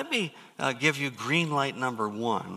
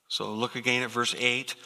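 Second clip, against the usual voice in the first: ordinary delivery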